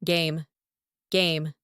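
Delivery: "Game" with the final e silent. Shown as a demonstration. Teacher giving test answer, silent e in "Game". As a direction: end "Game" on the m. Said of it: "Silent letter E here".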